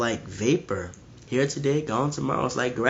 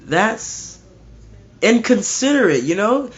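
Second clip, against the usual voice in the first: higher, louder mock protest; objecting mourner; 7 semitones higher, 5 dB louder than usual. Imagined churchgoer objecting to the preacher, higher mock protest. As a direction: whine it like an offended mourner, higher. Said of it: "And you may say".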